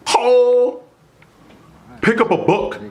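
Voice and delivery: mocking hood rat. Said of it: "these hoodlums would say".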